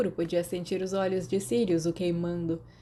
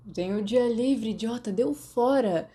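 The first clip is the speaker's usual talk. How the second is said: groggy groan; 4 semitones higher than usual. Acted. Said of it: "Sirius gemeu em resposta".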